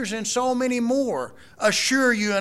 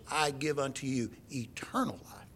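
whispered verse, breathless and reverent; a hushed whisper of the true words; 5 semitones lower, 9 dB quieter than usual. Shown as a demonstration. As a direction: breathe the promise softly. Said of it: "He says".

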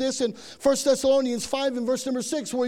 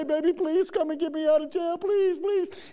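higher-pitched pleading whine, hammed up; mock tearful begging; 4 semitones higher than usual. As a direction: beg like a fake crybaby. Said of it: "calling C J and crying".

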